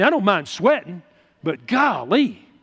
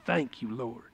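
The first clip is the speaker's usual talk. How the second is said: breathless whispered oh's of praise, much softer; 10 semitones lower, 14 dB quieter than usual. Retold or imitated. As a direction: whisper it as if overcome by the Spirit. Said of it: "It's like".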